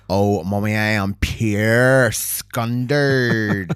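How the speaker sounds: drawn-out mortified Belfast woman, very slow; slow mock-mortified local lament. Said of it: "they'll say".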